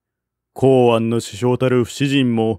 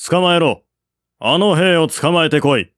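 raised, higher voice barking an order to seize him; commanding shout; 5 semitones higher than usual. Acted. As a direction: call out sharply to the riders. General orders soldier seized. (鋭く命じる大声)

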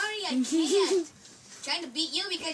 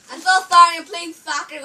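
excited shout; 18 dB louder than usual. Real, not acted. Shouting at friend mid-game.

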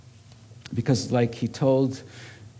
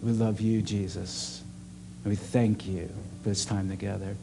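prayer; 2 semitones lower than usual. Acted. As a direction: pray gently over the room. Leads a closing prayer.

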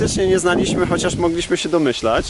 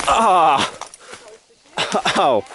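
hit hard crying out. Real, not acted. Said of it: "Dostałem w twarz ogólnie".

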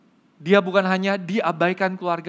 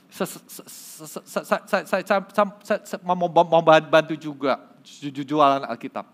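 imitated severe stutter; gagap. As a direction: force out each word after many false starts. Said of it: "sambil gagap gitu ya". (menirukan gagap yang parah)

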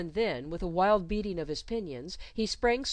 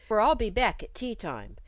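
plaintive; 4 semitones higher, 5 dB louder than usual. A narrator's reading.

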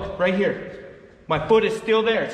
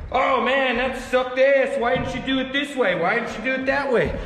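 mock commenter; 4 semitones higher than usual. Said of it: "when I post it on Instagram".

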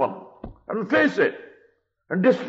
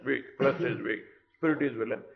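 mocking the excuse, muttered softer; softer mocking mimic of the excuse we hide behind; 4 semitones lower, 8 dB quieter, faster than usual. Shown as a demonstration. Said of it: "We always hide under the flesh".

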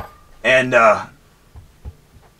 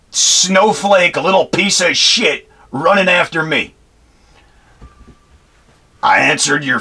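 angry rant; 3 semitones higher than usual. Real, not acted. Ex-Marine ranting to camera about the kid, real anger. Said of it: "So now I'm getting furious".

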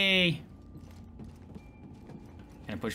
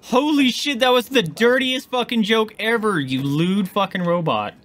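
mock outrage; 7 semitones higher, 5 dB louder, slower than usual. Mock outrage at robot joke.

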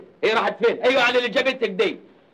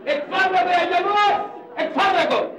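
shouting at crowd; 6 semitones higher than usual. Acted. Showing photo to crowd.

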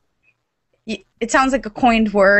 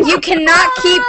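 mock ranting Plato. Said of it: "he was like".

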